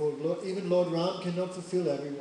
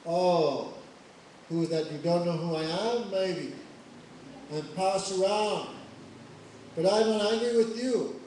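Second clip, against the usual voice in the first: angry boast; 2 semitones higher, 4 dB louder than usual. Acted. Parshuram shouting at Lakshman.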